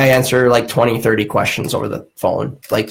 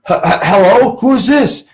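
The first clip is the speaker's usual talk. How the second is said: flustered high hello; 10 semitones higher than usual. Retold or imitated. Startled when someone finally answers.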